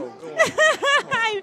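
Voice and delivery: high bashful laughing protest. Real, not acted. Guest laughing off the host's flattery. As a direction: brush off the compliment with a giggle.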